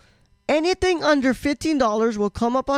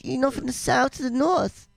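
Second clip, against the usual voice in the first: rambling mock German accent. German gamer quizzing where he is from, mock German accent. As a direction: keep up a hesitant put-on German accent. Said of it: "German accents".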